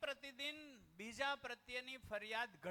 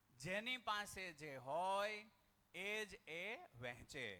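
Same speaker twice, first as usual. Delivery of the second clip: slow recited motto; 3 semitones lower, slower than usual. Shown as a demonstration.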